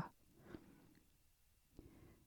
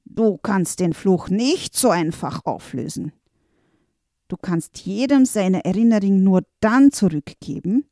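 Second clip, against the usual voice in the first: menacing evil wizard. Acted. Evil brother taunts the master, menacing. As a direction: lay down the curse's terms darkly.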